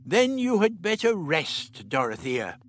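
put-on slow, softened old man voice; the relaxed Doctor telling Dodo to rest; gentler tone. A narrator's reading. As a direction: ease off and be gentle. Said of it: "altering his tone".

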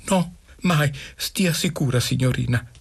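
high-pitched schoolboy promise; eager reassurance. A narrator's reading. Boy eagerly reassures his mistress.

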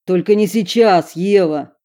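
shouting. Acted. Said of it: "прикрикнул на неё Уилл".

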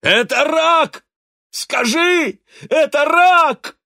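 high, loud screaming; wild terror. A narrator's reading. Dying father screaming at his daughter in terror. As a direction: scream it in horror. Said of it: "выкрикнул с диким ужасом".

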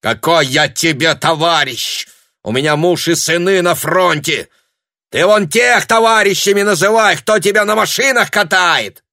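very high, loud slur; furious shout. A narrator's reading. Woman yells at Tanya, furious. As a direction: snarl the insult.

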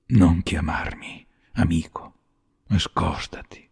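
breathless deathly whisper. A narrator's reading. Sick Luca warns Paroni not to touch him, whispering. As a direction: whisper it like a dying man. Sick man gasps out warning.

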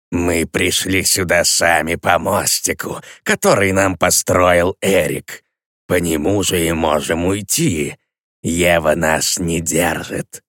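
slow, low, unbothered; indifferent sated demon; calm indifference. Acted. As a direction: say it lazily, not caring. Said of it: "равнодушным и спокойным".

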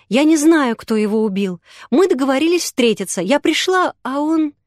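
lightly voiced girl defending herself; agitated girl. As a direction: blurt it out, rattled. Yulia upset, explaining.

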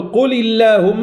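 ٱللهم em «قل اللهم» com lam fino e leve, alongado. Shown as a demonstration. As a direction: recite «قل اللهم» slowly with a thin, light L in اللهم. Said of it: "نرقق اللام".

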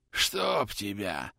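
slow groaned curse; groaning. Acted. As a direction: groan it out in pain. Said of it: "простонал ротмистр".

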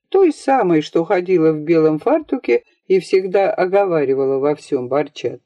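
ordinary delivery

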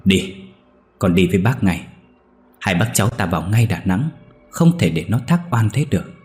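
mild firm urgency through the teeth; understated resolve, pressing the nephew to go; a hint of restrained anger; stern, gritted voice. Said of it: "ông Lan đã gằn giọng".

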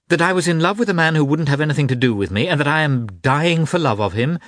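furious wounded tirade; angry outburst. Acted. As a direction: rail at her sister, voice climbing. Kitty's angry outburst at sister.

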